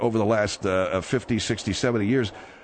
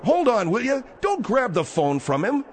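high raised call; 10 semitones higher than usual. Real, not acted. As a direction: shout to stop them. Host breaks up fight.

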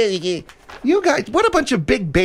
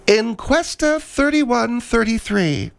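slow announcement; slower than usual. Shown as a demonstration. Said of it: "I say again".

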